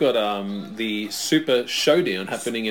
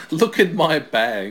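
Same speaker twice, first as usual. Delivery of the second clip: mock Orton echo; 4 semitones higher, 4 dB louder, much slower than usual. Repeats the Orton line slowly.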